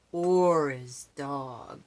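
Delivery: a slow, lightly growled dog grumble. Acted. Dog Spunky grumbling about Snapper, a light growl. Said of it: "growled Spunky".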